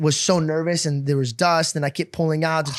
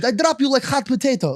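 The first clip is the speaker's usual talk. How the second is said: mock tough dad; 6 semitones higher than usual. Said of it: "doesn't know how to fucking swear properly".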